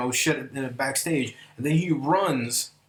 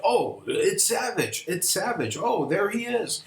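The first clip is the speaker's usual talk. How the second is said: excited fans; 7 semitones higher than usual. Retold or imitated. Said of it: "the people are like".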